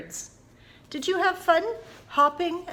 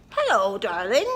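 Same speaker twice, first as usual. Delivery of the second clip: mock parrot; 4 semitones lower, 4 dB louder than usual. Shown as a demonstration. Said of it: "like a parrot".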